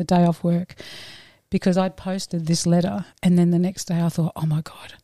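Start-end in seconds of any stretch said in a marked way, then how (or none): 4.3-4.9 unvoiced horrified whisper; whispered panic. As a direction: gasp it under your breath. Panic about posted letter.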